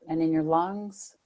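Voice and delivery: unhurried meditation guidance with long pauses; guided meditation. Real, not acted. Meditation teacher settling listeners into body and breath, guided meditation. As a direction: lead them gently, phrase by phrase, leaving room to breathe.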